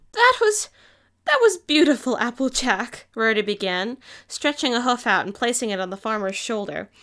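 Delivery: apologize, moved and tender; emotional Rarity. Acted.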